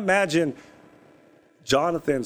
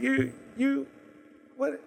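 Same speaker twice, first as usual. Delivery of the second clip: high, spluttering angry father; furious outburst; 11 semitones higher than usual. Retold or imitated. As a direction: sputter in disbelief, much higher. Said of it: "You know, that's anger".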